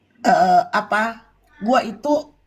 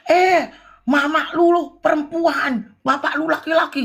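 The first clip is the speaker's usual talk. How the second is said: imitating yelling; 5 semitones higher than usual. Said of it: "Kak Mambel ini teriak-teriak".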